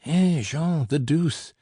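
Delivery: put-on high, loud old man's cry; shouting. A narrator's reading. Uncle shouts after the running narrator. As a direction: call after him in frustration. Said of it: "he shouted".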